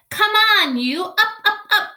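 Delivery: high, loud, urgent calls; yelling at leaves. Acted.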